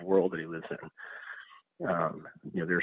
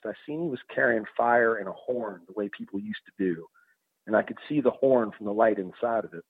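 put-on gravely reading in a Southwestern accent. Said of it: "Southwestern accent".

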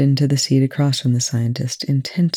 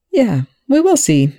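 good-natured; 9 semitones higher, 4 dB louder than usual. A narrator's reading. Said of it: "his tone good-natured".

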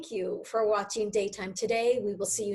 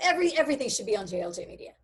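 whisper; 2 semitones higher, much faster than usual. Real, not acted. Joking whispered aside.

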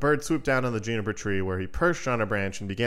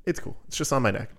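lightly voiced breezy bird, starting high; casual bird voice; 4 semitones higher than usual. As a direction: shrug it off like it weighs nothing. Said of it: "and he's just like".

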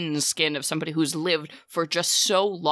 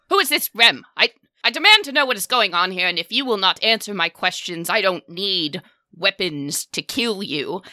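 screaming demand; 3 dB louder than usual. Acted. Furious matron mother demanding who Rem is, screaming in your face. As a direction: demand answers in a furious rush, easing into threat. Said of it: "screaming in your face".

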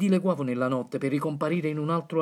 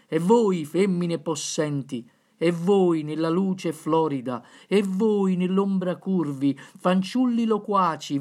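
town crier; slower than usual. Acted. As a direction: summon the crowd like a herald. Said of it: "le laudi di D'Annunzio".

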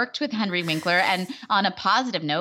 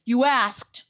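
higher, put-on grumpy accent; Scott Baio; 6 semitones higher, 3 dB louder than usual. Imitating his retort to her sympathy, mock impression. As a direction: throw it back in a mock voice. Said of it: "that's what he sounded like to me".

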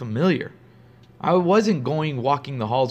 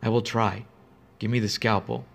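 calm; 2 semitones lower, 3 dB quieter than usual. Acted. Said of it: "She said calmly".

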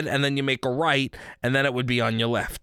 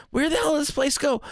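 a much higher, incredulous retold cry; exasperated outburst; 12 semitones higher than usual. Lost driver, retelling the missing donut shop, in higher mock exasperation. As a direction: act baffled and upset the place is gone. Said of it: "I was like".

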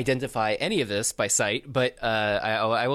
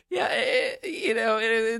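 much higher, overdone fake Australian accent; 12 semitones higher than usual. Designer laying into the cerulean pitch, overdone fake Australian accent. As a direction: lay into a bad Australian accent, cracking with laughter. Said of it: "terrible fake Australian accent".

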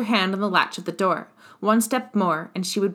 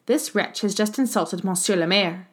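usual speaking voice

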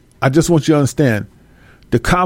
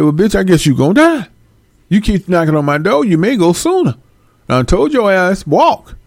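mock furious homeowner; 5 semitones higher than usual. Telling off the faker.

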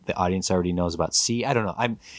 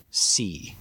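whispered. Acted. Villain confides the real enemy.

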